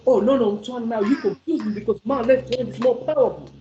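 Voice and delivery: lightly voiced confused student protesting; objecting left-hander. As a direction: imitate a left-hander's complaint. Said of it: "some people, they use left hand".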